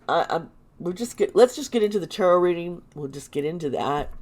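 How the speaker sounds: tight, closed-up throat voice. Real, not acted. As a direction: talk through a closed throat. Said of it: "My throat's closed".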